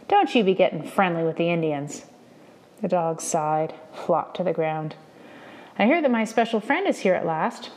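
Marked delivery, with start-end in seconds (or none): 0.1-2.1 a harsh, scolding growl. Acted. Indian Agent scolding his dog, harsh voice. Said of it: "a harsh voice". 5.8-7.7 raised, higher mocking call. Indian Agent taunting the boy, mocking call. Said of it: "called out to no one".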